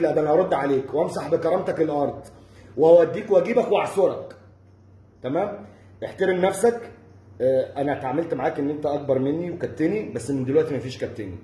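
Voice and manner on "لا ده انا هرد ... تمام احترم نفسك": angry threat. Real, not acted. Warning Reda Abdel Aal, heated and rising. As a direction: threaten him, building heat.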